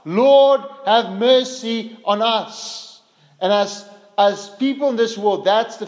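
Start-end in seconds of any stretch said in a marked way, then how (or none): 0.0-3.0 loud drawn-out plea for mercy; desperate beggar's call, stretched slow; pleading cry. Acted. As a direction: cry out slowly, begging. Preacher voices the blind men's cry.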